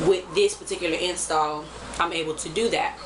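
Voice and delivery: short of breath, talking through it; out of breath, lightly panting. Real, not acted. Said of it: "I get a little out of breath".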